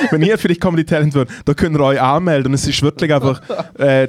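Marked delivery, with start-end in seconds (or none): 0.1-2.5 laughing through quote. Retold or imitated. Retelling while laughing.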